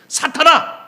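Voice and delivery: sudden high-pitched rebuke; acted-out outburst of reproof; stern rebuke. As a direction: call him out sharply. Jesus rebukes Peter, acted by preacher.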